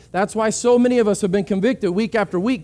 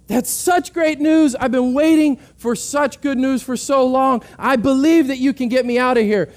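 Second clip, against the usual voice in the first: higher, eager, gushing excitement; overjoyed lost man; 5 semitones higher than usual. Retold or imitated. Lost man gushing to the park ranger, excited and high. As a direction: play the lost man thrilled at the good news.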